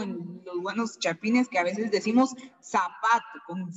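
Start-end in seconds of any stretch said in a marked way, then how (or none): 2.6-3.4 "zapato" starting with a plain s. Shown as a demonstration. Teacher quoting how Guatemalans say it, "zapato" with plain s. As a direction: say "zapato" as if written sapato. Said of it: "como con S".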